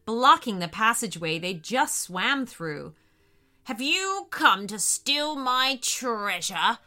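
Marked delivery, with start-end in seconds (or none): 3.6-6.8 menacing shark. Acted. Shark accusing treasure thieves, menacing. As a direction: threaten them with relish. Angry shark threatens the intruders.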